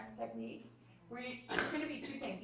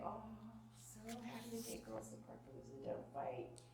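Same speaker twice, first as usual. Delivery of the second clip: calm; 11 dB quieter than usual. Retold or imitated. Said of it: "I would calmly say".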